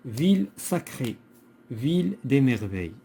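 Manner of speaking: deliberate classroom recitation; poem reading aloud. Shown as a demonstration. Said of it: "on va lire le poème".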